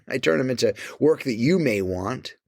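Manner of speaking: with a laugh through it; amused repeat. Shown as a demonstration. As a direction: chuckle as you say it. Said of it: "I turn 'em into work".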